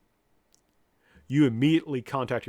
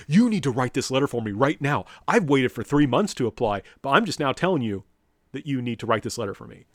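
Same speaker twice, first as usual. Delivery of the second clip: louder, pushy mock demand from a late student; entitled demanding student; 4 dB louder than usual. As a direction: imitate a student barking orders at the professor. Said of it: "and it's like".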